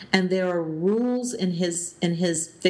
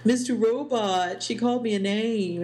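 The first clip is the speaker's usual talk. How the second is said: bickering sibling; 2 semitones higher than usual. Retold or imitated. Podcaster retelling Elliot's complaint to his dad, mock bickering. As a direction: lightly imitate a sibling tattling to dad. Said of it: "they were bickering 'cause Elliot was like".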